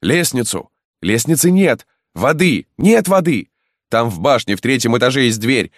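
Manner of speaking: high, loud urgent shouts; frantic calls across the moat; shouting voices. Acted. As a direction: crowd yelling for ladders and water. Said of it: "раздавались голоса".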